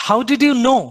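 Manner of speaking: lightly voiced lion demanding an answer; lion with authority. Lion king demanding answers from the gang, mildly commanding. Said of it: "the lion asked with authority".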